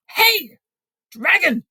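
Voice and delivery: shouted as loud as she could. A narrator's reading. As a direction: yell with everything you have. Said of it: "She shouted as loud as she could".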